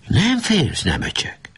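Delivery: mock call, leaping high then dropping; retold shout. A narrator's reading. Nemecsek quotes what the enemy captain shouted, mock shout. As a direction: imitate a challenging call without real volume. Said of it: "Azt kiáltotta".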